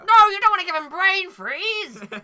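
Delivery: loud, high, slow shouted no; mock outraged shout. Cohost forbids the McFlurry torture with a mock shout. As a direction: yell it in hammed-up outrage.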